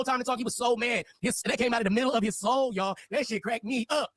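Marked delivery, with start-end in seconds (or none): 3.1-4.1 laughing. Real, not acted. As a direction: talk through laughter, slow. Laughing at guest outburst.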